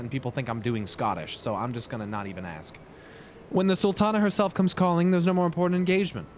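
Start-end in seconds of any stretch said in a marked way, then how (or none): 3.5-6.3 lightly voiced lord, pitched a little higher; brisk, courtly welcome with a light character touch; first try at Godbert. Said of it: "What kind of accent does this guy have?".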